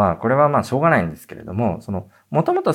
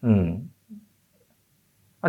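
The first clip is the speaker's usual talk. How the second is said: ordinary talk, nothing marked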